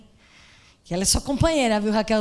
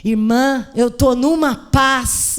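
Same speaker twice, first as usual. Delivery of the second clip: louder, slow, glowing calm; peaceful relief; 7 dB louder, much slower than usual. Retold or imitated. Relieved woman hugs the pastor at the airport, slow and glowing. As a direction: savour the peace in each word. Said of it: "Ela me abraçou e falou assim".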